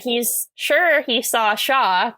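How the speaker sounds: slowed down, each word placed with care; slow careful tongue twister. Shown as a demonstration. Retrying a tongue twister for the listener, slow and careful. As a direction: work through the tongue twister slowly. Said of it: "Quite a tongue twister".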